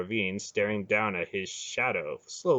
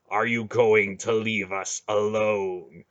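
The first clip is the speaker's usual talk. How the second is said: slow, heavy threat; slow menacing demand; 4 dB louder, slower than usual. Acted. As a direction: grind out each word. Garion squeezing the heart.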